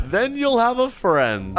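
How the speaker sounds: slow, hammed-up kidnapper taunt; villain in character. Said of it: "A little too into character here".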